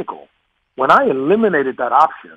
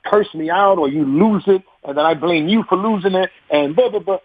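mocking sister; 5 semitones higher than usual. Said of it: "She was like".

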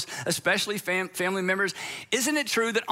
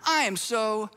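condescending apology; 2 semitones higher than usual. Retold or imitated. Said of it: "a little pat on the head".

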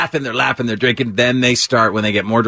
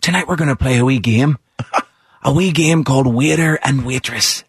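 Irish parent voice. Retold or imitated. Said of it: "They're like".

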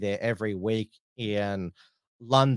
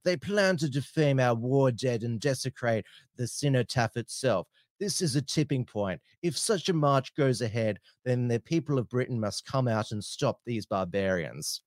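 lightly pompous British pundit voice; Douglas Murray impersonation; 3 semitones higher than usual. Retold or imitated. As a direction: read the tweet like a pompous commentator. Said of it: "How's my Douglas Murray impersonation there".

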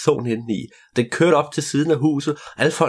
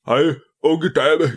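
slow, drawn-out royal greeting; the king of the world greets the girl slowly and grandly; pompous king; 3 semitones higher, much slower than usual. Acted. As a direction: greet her like a self-important king. The fat king greets her.

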